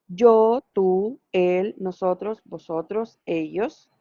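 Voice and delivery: "Yo" punched loud, then "tú, él, nosotros, vosotros, ellos" falling away; listing pronouns. Shown as a demonstration. Teacher reciting the pronouns, loud start then fading. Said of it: "pronombre personal".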